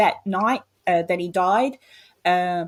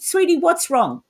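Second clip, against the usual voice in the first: higher, coaxing worried question; retold motherly concern; 9 semitones higher, 3 dB louder than usual. Mother on phone to her eldest son, worried. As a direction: imitate gently pressing a child for news.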